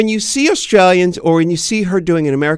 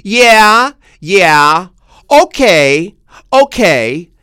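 mock American; 5 dB louder, much slower than usual. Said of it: "you would go".

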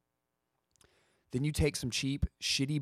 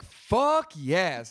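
a quick, louder, higher burst of relief; relieved cheer; 6 semitones higher, 4 dB louder than usual. Retold or imitated. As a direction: blurt it out, glad to finally sit. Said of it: "I was just like".

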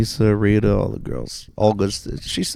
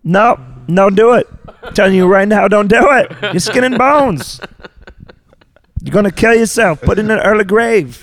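guilt tripping grandma; 6 semitones higher than usual. Acted. Same put-on voice continues.

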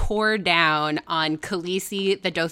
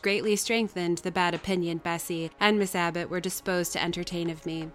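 measured audiobook reading; story narration. A narrator's reading. Reader telling Jane's story to listeners, measured narration. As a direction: read it out like a classic novel. Reads the novel aloud.

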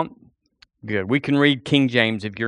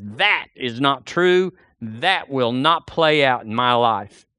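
indignant; slower than usual. Retold or imitated. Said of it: "is not just indignant and says".

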